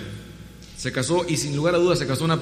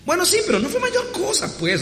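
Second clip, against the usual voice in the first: sheepish laughing admission. Retold or imitated. Mary sheepishly admits it.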